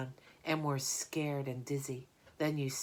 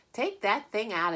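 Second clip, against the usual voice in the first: sharp order; 6 semitones higher, 6 dB louder than usual. Acted. Mrs Zuckerman orders frog out.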